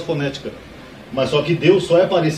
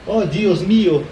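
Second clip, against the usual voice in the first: put-on slow, higher Spanish-accented "Dios mio"; imitating a Spaniard; 4 semitones higher, much slower than usual. Teacher showing viewers the Spanish exclamation, slow Spanish accent. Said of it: "O espanhol é parecido".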